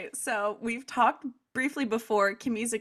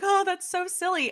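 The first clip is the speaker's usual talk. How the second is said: retold giddy amusement; 9 semitones higher than usual. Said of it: "dying laughing and, like, tears are streaming".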